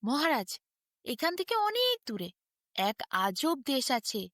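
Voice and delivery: a hint of mock solemnity, slowing at the end; lightly put-on gravity to open a tall tale; grave voice. Barber opening his tale to the king, lightly grave voice. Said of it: "গম্ভীর গলা করে বললেন".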